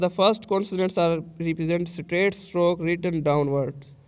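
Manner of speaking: very slow, word by word from the book; slow reading aloud. Shown as a demonstration. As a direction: dictate it slowly to the class. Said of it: "teacher reads the book aloud slowly".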